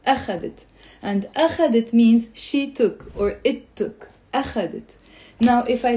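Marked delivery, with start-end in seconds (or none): 0.1-0.7 أخذت stressed on the opening أ; weight on the A of أخذت; stress on first syllable. Shown as a demonstration. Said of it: "So the stress is on the أ". 4.3-5.0 softer أخذت, stressed on the opening أ; weight on the A of أخذت; stress on first syllable. Shown as a demonstration. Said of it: "So the stress is on the أ".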